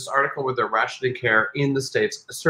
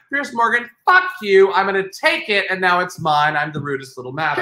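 a light sassy rapper voice, mostly higher; voicing a rapper; 3 semitones higher than usual. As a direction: talk back to Piers Morgan as the rapper. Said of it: "she totally went".

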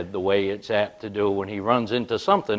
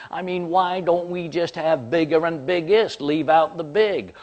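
higher and louder, building to a near yell; building rant; 4 semitones higher, 4 dB louder than usual. Retold or imitated. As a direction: argue it out, getting hotter each line. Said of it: "starts to unload".

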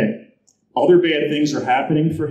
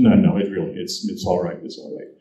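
soft reassurance; 5 semitones lower than usual. Retold or imitated. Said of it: "she said".

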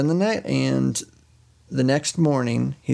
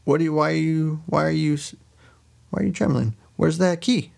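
higher-pitched, stammered demands; suspicious husband, lightly acted; mock interrogation; 5 semitones higher than usual. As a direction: halt them and question them, half-playing. Husband challenges trembling wife.

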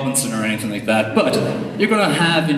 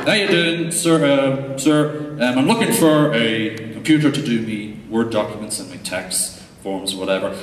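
put-on Irish farmer accent. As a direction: play the shy Irish farmer asking for a computer, in a broad Irish accent. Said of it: "this is how they speak".

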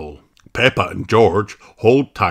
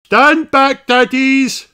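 much higher, louder command; shout; 7 dB louder, slower than usual. A narrator's reading. Miss Rabbit orders the daddies back, loud high command. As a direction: order them back firmly. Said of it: "shouts Miss Rabbit".

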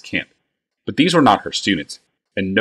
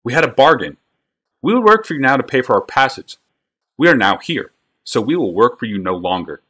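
put-on a higher, louder boy's voice, firm and steady; calm but carrying; 5 semitones higher than usual. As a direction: stand your ground, loud enough for the crowd. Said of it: "he said calmly, though loud enough".

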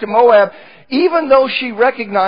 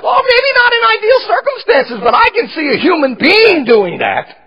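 tearful outburst; 10 semitones higher, 4 dB louder than usual. Real, not acted. Preacher's emotional defence of Naomi.

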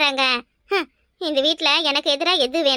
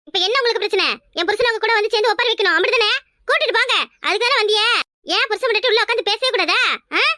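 angry retort; 3 semitones higher than usual. Acted. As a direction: throw it back at her in anger. Daughter-in-law snaps at mother-in-law. (மாமியாரிடம் கோபமாக எதிர்த்துப் பேசும் மருமகள்)

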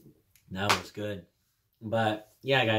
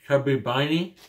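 cheeks stuffed full; 3 semitones higher, 4 dB louder than usual. Real, not acted. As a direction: mouth packed with marshmallows. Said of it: "put this in my mouth and say".

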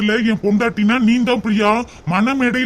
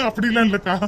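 laughing. Acted. Laughing denial.

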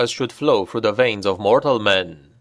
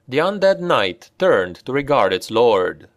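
plain reading voice

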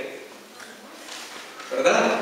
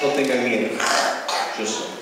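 calm voice of Jesus; 11 semitones lower, faster than usual. Retold or imitated. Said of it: "la voz de Jesús que dice".

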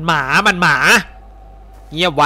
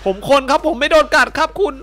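higher, urgent plea; pleading captive; 9 semitones higher than usual. Acted. Captive pleads with his captor, urgent high plea. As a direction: insist you're human, begging. Dubbing a captured man pleading.

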